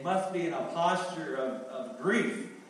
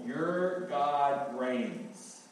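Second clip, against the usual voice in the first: slow proclamation; much slower than usual. Acted. Slow emphatic restatement of message.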